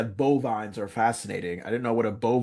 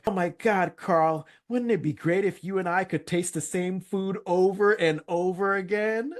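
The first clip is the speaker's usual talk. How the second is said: mock Steve; 7 semitones higher than usual. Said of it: "the way he wraps it up, like".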